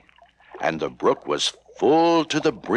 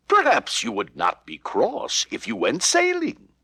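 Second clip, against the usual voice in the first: lightly voiced kind shopkeeper, higher; gently coaxing shopkeeper; a hint of a kindly toy seller; man's voice; 11 semitones higher than usual. Man voiced in story.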